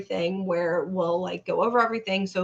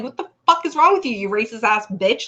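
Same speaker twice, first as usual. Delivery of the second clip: retold cussing out; 5 dB louder than usual. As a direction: act out the husband going off. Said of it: "he starts cussing her out".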